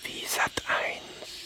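slow whispered aside; slow voiceless whisper. Acted. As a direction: whisper it slowly to the side. Aside during the story.

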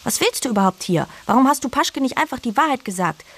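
put-on high, sharp girl's reproach; girl starts the quarrel, mildly accusing. A narrator's reading. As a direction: throw the blame at him. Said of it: "Fine machte den Anfang".

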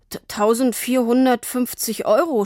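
nervous stammered price; young salesman stumbling over the number; stammering. A narrator's reading. Young salesman stammers the price to Tini. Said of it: "stotterte er".

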